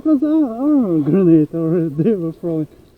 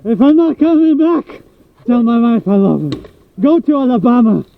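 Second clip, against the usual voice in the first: mock dying soldier's last words; lightly hammed-up farewell; wounded soldier gasping; 3 semitones higher than usual.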